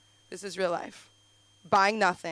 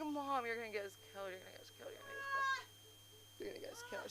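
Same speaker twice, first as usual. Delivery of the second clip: hushed, much softer panicked plea; urgent hushing; 7 semitones higher, 10 dB quieter, much faster than usual. Retold or imitated. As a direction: hush her urgently under your breath. Alarmed daughter hushing loud mom on subway.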